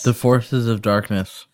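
talking around an ice cube; words slurred by ice in mouth. Real, not acted. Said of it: "the way you said that with an ice cube in your mouth".

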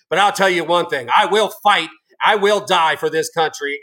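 heated, emphatic denunciation; real angry defiance. Real, not acted. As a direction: drive each vow home with righteous anger. Denouncing an agent, vowing to fight.

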